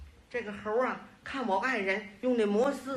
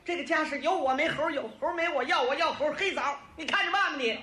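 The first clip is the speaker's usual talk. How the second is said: high-pitched imitation of a fed-up wife; mock scolding, pitched up; angry yelling; 4 semitones higher than usual. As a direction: lay down an angry ultimatum. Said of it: "我爱人气得在院儿里就喊呐".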